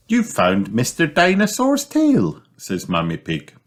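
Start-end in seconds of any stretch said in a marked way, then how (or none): 0.1-2.4 high, rising exclamation; thrilled for the child who found it; delighted mum. Acted. Mummy Pig delighted at the find.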